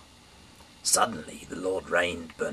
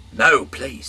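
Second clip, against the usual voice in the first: loud, high begging; pleading; 7 semitones higher, 12 dB louder than usual. Acted. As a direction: plead against the order. Lot pleading with the angel.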